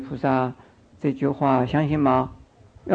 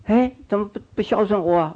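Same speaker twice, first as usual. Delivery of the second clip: pitched-up complaint about not being cared for; whiny complaining elder; 6 semitones higher, faster than usual. Retold or imitated. Monk mimics an old man scolding disciples, high and whiny. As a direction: whine like a neglected old master. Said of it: "我不会说".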